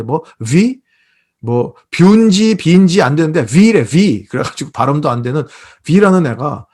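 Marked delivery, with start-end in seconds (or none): 0.0-4.2 "위" as a clumsy rounded "wi" for the letter V; fumbled pronunciation of V. Shown as a demonstration. Preacher admitting he can't pronounce the star's name, fumbled pronunciation. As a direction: say "위" for V, stressed, as if struggling with the sound. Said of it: "저는 발음도 잘, 잘, 잘 안 돼".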